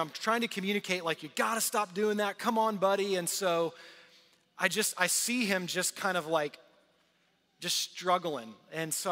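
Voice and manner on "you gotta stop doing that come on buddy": frustrated dad. Retold or imitated. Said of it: "I'm just frustrated with him".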